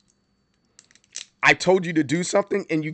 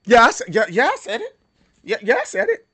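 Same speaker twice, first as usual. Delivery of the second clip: high, stuttering bravado; pitched-up, put-on swagger; cocky kid impression; 6 semitones higher, 4 dB louder than usual. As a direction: play a kid doubling down. Voices the kid boasting back.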